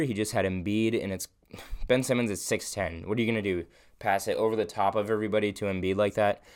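rushing without pausing for air; running out of breath; all in one breath. Real, not acted. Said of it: "I'm out of breath".

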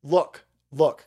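mock flustered "look, look" stalling; mimicking press secretary. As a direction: parrot her nervous stalling. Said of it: "The next word that she's gonna say is".

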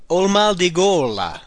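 slow, careful Italian model phrase. Shown as a demonstration. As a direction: lay out each word for the learner. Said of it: "The next one".

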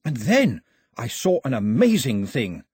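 high, breathless tale to the crowd; dramatic storytelling. A narrator's reading. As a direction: spin a wild tale, wide-eyed. Pilou dramatically tells shark story.

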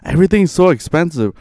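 light whiny complaint; a hint of a whining friend; Andres impression. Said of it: "I have another impression".

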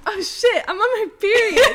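hammed-up alarm breaking into a laugh; retold panicked yell. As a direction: yell it like the news just hit you, half laughing. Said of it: "I yelled".

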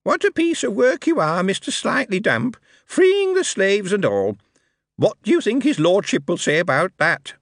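high, cackling goblin voice. Acted. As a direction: cackle and mock him like a gleeful goblin. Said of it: "the darkness cackled".

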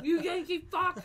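loud, high, slow jeer with laughter; mock angry insult. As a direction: hurl a joking insult, half laughing. Mock insult joining the angry story.

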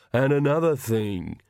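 slow grumbling servant voice; aggrieved retainer, slow and muttering. A narrator's reading. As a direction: carry on your private grievance, drawn out. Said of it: "His muttering kept time with the strokes of the brush".

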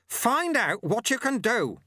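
high, slow, emphatic order; slow commanding. A narrator's reading. Sweeper ordering the boy to find his power, slow and emphatic. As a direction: spell it out word by word.

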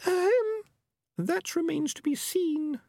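very high, small female rat voice; Peaches, young female rat. A narrator's reading. Peaches doubts the cat's decency, very high-pitched. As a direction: demur in a tiny high-pitched voice.

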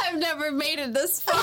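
quick words through laughter; laughing. Real, not acted. Owning up to friends, fast and laughing. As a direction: rush it out while still laughing.

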